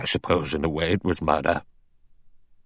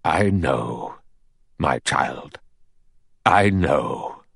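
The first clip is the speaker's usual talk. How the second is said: put-on slow-spoken old General, lower on the last address; gentle old General's assurance; gently knowing; 3 semitones lower, much slower than usual. A narrator's reading. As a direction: reassure her as a knowing elder. Old General soothes Vera.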